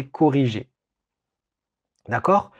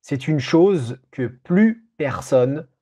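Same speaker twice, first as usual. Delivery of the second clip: dictating. Shown as a demonstration. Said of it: "je vais répéter l'ensemble de la dictée".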